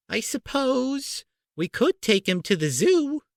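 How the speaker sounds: high, slow, thinking aloud; slowly. A narrator's reading. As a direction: drag the idea out, slowly plotting. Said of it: "said Aunt Petunia slowly".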